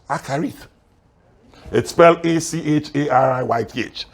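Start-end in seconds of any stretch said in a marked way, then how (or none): 0.1-0.7 Acharith sounded out as a Hebrew word; pronunciation demo. Shown as a demonstration. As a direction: say "Acharith" carefully for learners. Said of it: "That word is pronounced".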